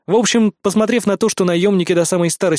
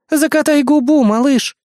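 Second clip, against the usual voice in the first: higher, louder brazen taunt; cheeky smirk; 9 semitones higher, 4 dB louder than usual. A narrator's reading. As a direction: smirk it at him, cocky. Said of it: "нагло усмехнулась она в ответ". (нагло, с усмешкой)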